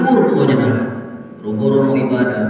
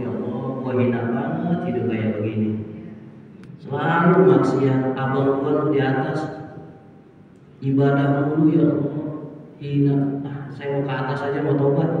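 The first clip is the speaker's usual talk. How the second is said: remorseful; 4 dB quieter than usual. Acted. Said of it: "adiknya lagi ngomong".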